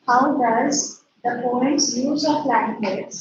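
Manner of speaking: slow dictation. Shown as a demonstration. Teacher dictating a question.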